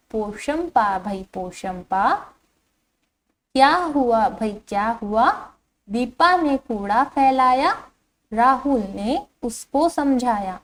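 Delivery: put-on slow, lilting children's poem reading; poem recitation. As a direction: read the verse out slowly for young pupils. Rereads the stanza for pupils. (बच्चों के लिए लय में धीमा कविता पाठ)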